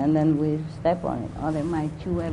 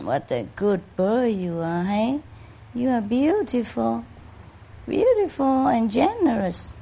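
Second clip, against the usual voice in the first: slow, higher, cooing praise to a pet; tender pet talk; 4 semitones higher than usual. Real, not acted. Speaking fondly to the bird she adores, slow and tender. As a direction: coo slowly over the bird like a proud owner.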